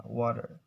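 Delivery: "water" with the t turned to d; "water" with tapped t; American D-like T. Shown as a demonstration. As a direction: say "water" as "wadder", r sounded. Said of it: "the T sounds become D".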